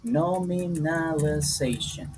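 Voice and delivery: "Nominalization" said slowly, every syllable clear; careful spelling-out. Shown as a demonstration. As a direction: lay out "Nominalization" syllable by syllable for the class. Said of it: "I'm going to give you the name here".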